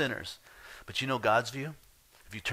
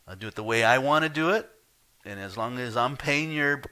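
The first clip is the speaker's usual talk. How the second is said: 1 firm boss; 4 semitones higher, 4 dB louder than usual. Retold or imitated. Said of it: "the boss says".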